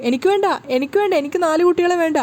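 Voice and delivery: begging in a nightmare; a husband panicking in a bad dream; wailing in sleep. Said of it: "Sachi ഉറക്കത്തിൽ നിലവിളിക്കുകയാണ്".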